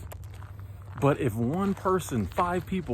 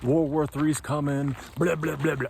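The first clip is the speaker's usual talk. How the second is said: mock doom-monger. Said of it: "just get out there and say".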